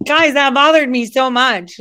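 "bothered" hit hard and high; agitated outburst. Real, not acted. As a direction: burst out with it, still rattled.

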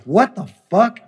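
high, startled burst of disbelief; shocked disbelief. Retold or imitated. Told his friend had a heart attack, shocked high disbelief. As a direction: blurt it out in sudden shock.

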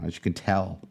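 hoarse, losing his voice; lost voice. Real, not acted. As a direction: speak through a worn-out, hoarse voice. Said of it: "I've lost my voice here".

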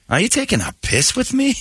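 put-on high Scottish accent, phrase set right; corrected Scottish phrase. Host fixing the Scot's phrase, in a high Scottish accent. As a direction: redo the Glasgow man's line properly. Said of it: "I don't think you're even doing that right".

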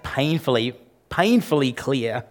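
painfully, painfully drawn out slow; stress on painfully. Shown as a demonstration. Preacher to congregation, stressing painfully. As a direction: lean hard on painfully, slowly. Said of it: "emphasis on painfully".

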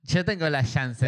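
"Janssen" with an Argentine sh for the J; mock-Argentine "Janssen", opening on sh; Argentine accent. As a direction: put on Argentine, saying "Shanssen" for "Janssen". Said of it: "Johnson and Johnson en argentino".

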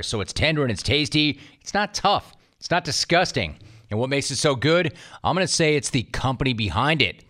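upbeat ad read; chipper 1950s ad. Acted. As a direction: sell it like an old radio spot. Reads a jerky ad.

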